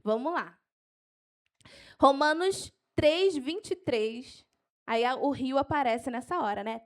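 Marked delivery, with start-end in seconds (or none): 2.0-4.5 slow, spaced-out verse reference; measured dictation pace; slow for note-taking. Shown as a demonstration. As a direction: dictate it slowly for people writing. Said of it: "Eu vou falar devagar".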